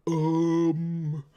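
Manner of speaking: long, rounded dopey "um" in stereotyped New Zealand; dumber-sounding New Zealand. Shown as a demonstration. Demonstrating a stereotype to viewers, dopey rounded New Zealand accent. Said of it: "stereotypically dumber sounding".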